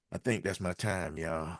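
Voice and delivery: breathless, winded, trailing off; out of breath. Real, not acted. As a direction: talk with barely any air left. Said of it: "I ran out of breath".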